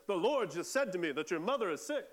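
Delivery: confident pronouncement; bold prophetic claim. Shown as a demonstration. Telling a stranger their mother is sick, announced with certainty. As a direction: declare it as a direct word from God. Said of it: "rather than".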